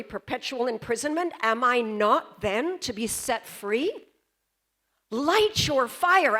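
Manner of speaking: put-on young Joan challenging the jury; dramatic Joan. Shown as a demonstration. Young Joan to the jury at her trial, dramatic. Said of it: "And I delivered it like that".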